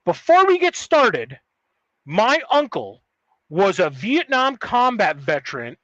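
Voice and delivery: slow, high, pompous imitation of dad; mimicking dad. Dad announcing his letter to wife and son, slow pompous mimicry. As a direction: ham up a self-important dad clearing his throat to begin.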